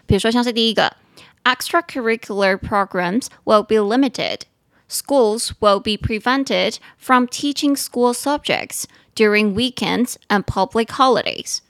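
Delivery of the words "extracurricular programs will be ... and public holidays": slow, deliberate read-aloud of the English passage; careful reading. Shown as a demonstration. Teacher reads the news text slowly to listeners. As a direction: read each word out clearly for learners.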